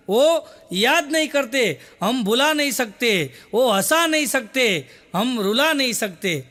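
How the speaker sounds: slow, measured Hindi verse; poem recitation. Acted. Comic closes the show with a Hindi couplet, slow recitation. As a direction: recite each line with slow weight.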